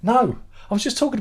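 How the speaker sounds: sudden high loud shout of no; exasperated no. Real, not acted. Streamer answering a chat question about lost post, high loud exasperated no. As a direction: burst out, fed up.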